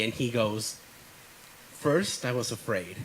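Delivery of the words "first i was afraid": mock creepy. Crew member imitating the actor's botched horror line, mock creepy. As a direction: deliver it as a lightly creepy knife-sharpener. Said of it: "being all, uh, creepy".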